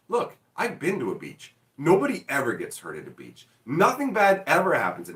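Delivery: lightly overblown, emphatic denial; hyperbolic insistence. Retold or imitated. Teasing someone about beach danger, mildly hyperbolic. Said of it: "going so hyperbolic in the other direction".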